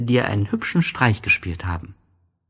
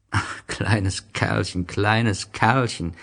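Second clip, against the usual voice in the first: tender sigh; much slower than usual. Acted. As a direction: linger sadly on each word. Narrator sighs over the prince. (langsam, zärtlich und wehmütig)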